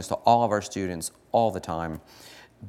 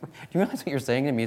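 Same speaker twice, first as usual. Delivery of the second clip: mock indignant; 5 semitones higher, much faster than usual. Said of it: "I'm like".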